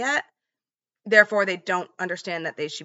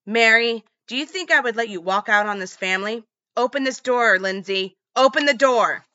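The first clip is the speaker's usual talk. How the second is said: higher, louder retold raging yell; shouting threat; 4 semitones higher, 6 dB louder than usual. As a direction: roar at her through the basement door.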